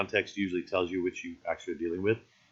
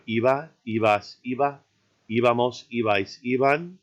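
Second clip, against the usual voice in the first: iba, ibas, íbamos, each leaning on the opening I; EE-ba, EE-bas, EE-ba-mos, front-stressed; stress on first syllable. Shown as a demonstration. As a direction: recite iba to iban as a list, stressing the first I. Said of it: "notice that same kind of stress".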